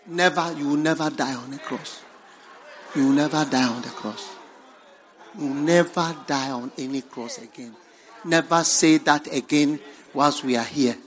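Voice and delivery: loud, emphatic refusal, acting out Peter; forceful protest. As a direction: forbid it firmly at full volume. Peter protests Jesus's foretold death.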